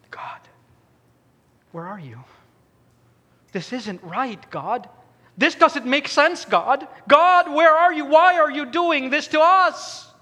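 desperate plea swelling from whisper to outcry; prayer building to a cry. Retold or imitated. Family's prayer in the hospital.

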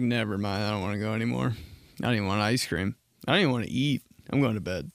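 understated mock dejection; mildly sulky. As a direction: give up on it like a sulking kid. Retells sulky reply to dad.

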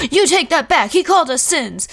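high, loud, shocked and indignant; gasping kids demanding an apology; offended outburst. Retold or imitated. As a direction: snap back as if deeply insulted.

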